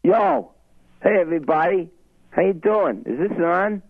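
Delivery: lightly voiced Revere tough guy with a Boston accent; brash street guy from Revere, heavy Boston accent; Richie from Revere. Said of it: "his routine, Richie from Revere".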